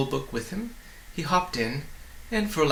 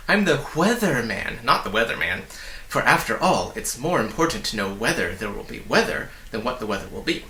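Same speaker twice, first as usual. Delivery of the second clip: fast excited little man; 3 semitones lower than usual. Acted. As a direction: bubble over with welcome, words tumbling. Weatherman voice.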